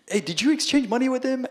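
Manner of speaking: high-pitched calling out; yelling. Retold or imitated. Calling to a tourist who met a scammer, yelled. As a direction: imitate shouting a question across the street. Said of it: "I was yelling at him".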